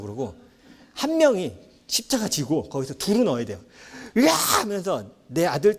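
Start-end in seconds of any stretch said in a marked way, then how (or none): 4.2-4.3 tantrum scream. Shown as a demonstration. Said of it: "진상을 보여줘야 돼요".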